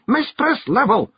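high, urgent Scottish cry; Rob Anybody screaming. A narrator's reading. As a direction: call out as a frantic tiny Scot. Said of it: "Rob screamed".

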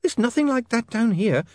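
put-on high, accented vampire wailing; desperate wail. A narrator's reading. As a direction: wail it in panic, pitched high. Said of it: "Otto wailed".

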